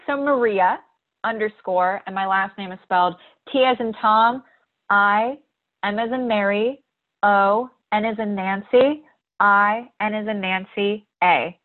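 letter by letter with "as in" words; spelling it out. Real, not acted. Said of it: "Can you spell that for our listeners?".

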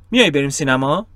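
میای بریم سینما? with a rising Farsi question tune; the Farsi rise and fall on سینما. Shown as a demonstration. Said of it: "take the following in Farsi".

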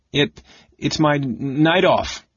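high, stammering squeak of protest; indignant squeak. A narrator's reading. Mouse-bodied Tas making an excuse to the mage, indignant squeak. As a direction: squeak it indignantly, tripping over the words. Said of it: "an indignant tone of squeak".

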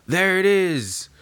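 a Beast Pirate spots the Sunny, slow, high and gloating; gleeful pirate. Acted. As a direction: savour spotting the target. Beast Pirate spotting the ship.

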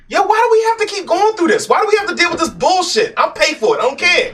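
fed up with injustice, pitched high; exasperated outburst. Real, not acted. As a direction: let the anger pour out. Angry outburst about racism.

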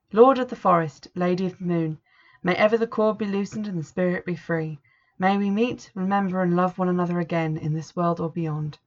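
solemn witch's prayer at the grave; ritual invocation. Acted. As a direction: intone it like a rite.

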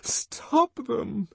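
high, desperate pleading cry; imploring. A narrator's reading. Woman begging them to stop the whipping, high pleading cry. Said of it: "she implored".

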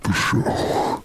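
low slow yawning menace; a mock dark lord drawing out each word like a yawn; Sith Lord voice. Shown as a demonstration. Showing friends his Sith Lord voice, slow and yawning. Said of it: "I'm gonna do it for the rest of".

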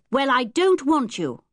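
put-on a rude young boy taunting strangers. Ten-year-old telling strangers his aunt will chuck them, rude.

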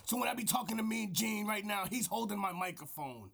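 lightly gruff wrestling promo; mild wrestler promo voice. Acted. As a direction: talk like a wrestler into the mic. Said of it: "This is my wrestler voice".

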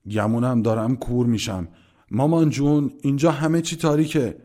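mock-hoarse clowning, climbing high and loud; صدای دورگه. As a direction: play blind and call out to mama in a put-on husky voice. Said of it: "با صدای دورگه گفتم".

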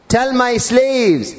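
very slow, sustained call; solemn proclamation. Acted. God commands the Prophet to tell, solemn proclamation. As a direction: draw each word out like a proclamation. Same words repeated as proclamation.

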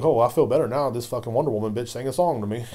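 loud mock gratitude; exaggerated fake relief; sarcastic relief. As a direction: pretend to be cured, loudly and sarcastically. Sarcastic relief at celebrity song.

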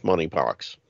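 "monkeypox" pronounced money-pox, no K; silent K. Shown as a demonstration. Host reading mask advice with the running joke, "monkeypox" with silent K. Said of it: "The K is silent".

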